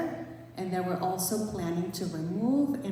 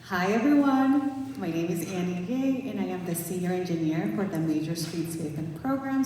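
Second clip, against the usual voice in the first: louder, projecting to the room; to someone hard of hearing; 5 dB louder than usual. Real, not acted. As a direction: speak up so the back row hears. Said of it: "Get closer and speak louder".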